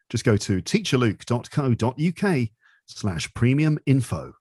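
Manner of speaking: slow, measured plug; podcast voice. Real, not acted. Plugging the premium section, podcast presenter voice. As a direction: read out the web address podcast-style. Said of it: "using my podcast voice there".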